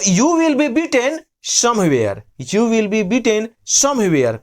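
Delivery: slow, deliberate sentence for students; slow dictation. Shown as a demonstration. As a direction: read it out slowly so they can follow. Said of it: "ठीक है, तो". (छात्रों के लिए धीरे-धीरे बोला गया वाक्य)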